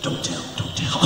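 unvoiced urging; mock whisper. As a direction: hiss it like a sly cousin. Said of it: "my cousin was like".

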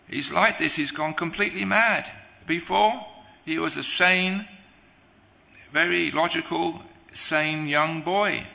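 lightly acted distress at a son's change; exasperated mother. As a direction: complain as a bewildered mother. Mother laments son's madness.

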